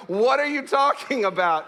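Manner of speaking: mock bewildered questioning; exasperated scoutmaster. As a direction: demand an explanation as a baffled scoutmaster. Scoutmaster baffled by the crying boy.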